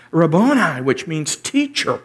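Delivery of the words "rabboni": louder called 'Rabboni'; cried out. Acted. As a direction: cry out 'Rabboni' to her teacher. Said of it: "cried out in Aramaic".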